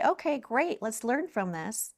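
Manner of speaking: lightly voiced upbeat parent. Parent responding to a child's setback, lightly upbeat. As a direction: take a child's setback in stride, lightly acted.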